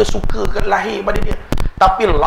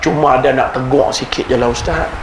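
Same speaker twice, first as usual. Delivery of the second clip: put-on Kedah accent; 3 semitones lower than usual. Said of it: "Saya ajuk orang Kedah".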